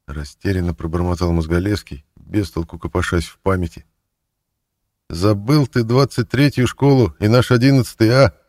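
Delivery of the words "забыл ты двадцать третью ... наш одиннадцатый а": higher, louder teasing; grinning reproach. A narrator's reading. Thief grinning as he reminds his old schoolmate. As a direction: say it through a broad grin. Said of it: "расплылся улыбкой вор".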